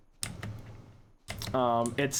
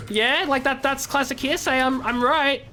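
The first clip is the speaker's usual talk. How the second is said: higher, tentative, seeking approval; awkward, unconfident; 8 semitones higher than usual. Retold or imitated. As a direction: imitate a lawyer asking permission to be right. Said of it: "he said it so awkwardly".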